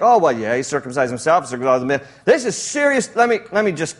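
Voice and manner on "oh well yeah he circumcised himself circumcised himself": dismissive shrug. Acted. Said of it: "Don't read this story and think".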